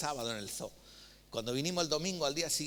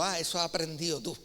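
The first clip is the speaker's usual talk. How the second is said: teasing approval; 4 semitones higher, 4 dB louder than usual. Pretend. Pastor teasing the honest kid.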